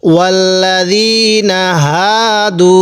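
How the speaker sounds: slow, drawn-out tajweed recitation; recited demo. Shown as a demonstration. Teacher reciting the verse for students, slow and drawn out. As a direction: chant ওয়াল্লাযীনা হাদু slowly with the long a held. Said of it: "তাহলে আমি কিভাবে পড়লাম?".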